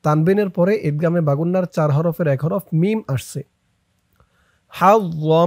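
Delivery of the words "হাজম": হাজম ending in a long nasal hum; idgham with ghunnah. Shown as a demonstration. Teacher shows the ghunnah, long hummed m. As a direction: hold the final m of হাজম through the nose. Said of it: "ইদগামে বাগুন্না গুন্না হবে".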